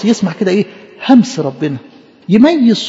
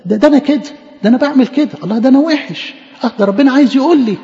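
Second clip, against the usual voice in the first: higher-pitched, mildly amazed self-discovery; mock startled realisation; 5 semitones higher than usual. Preacher plays a reader hearing God address him, mildly startled. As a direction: act out a touch of surprise, pitched up.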